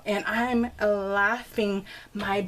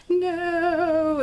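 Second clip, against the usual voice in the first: high, drawn-out mock wail; son's wailed protest; 8 semitones higher, 4 dB louder than usual. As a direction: imitate a kid's horrified refusal. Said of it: "it was so funny because he's like".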